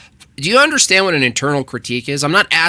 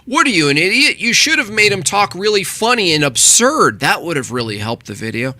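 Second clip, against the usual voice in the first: mocking imitation; 3 semitones higher than usual. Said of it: "He starts the video going".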